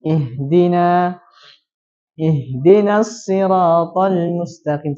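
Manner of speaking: "Ihdina" berhenti, lalu "ihdinas siratal" lambat; berhenti lalu sambung. Shown as a demonstration. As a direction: contoh waqaf lalu ulang. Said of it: "Kecuali kalau kita berhenti". (bacaan saat berhenti)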